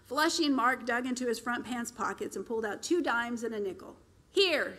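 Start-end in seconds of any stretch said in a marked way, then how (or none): 4.3-4.8 mild grumble. Acted. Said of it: "he grumbled".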